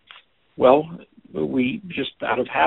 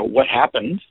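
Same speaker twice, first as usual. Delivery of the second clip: "What happened?" asked as a probing question; "What happened?" with a rising questioning end; questioning take; 3 dB louder, slower than usual. Shown as a demonstration. Teacher demos the probing question to a listener. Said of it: "Can you feel the energetic difference between the two?".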